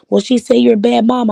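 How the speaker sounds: mocking gossip voice. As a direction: sneer it like the woman did. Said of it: "They turned around and said".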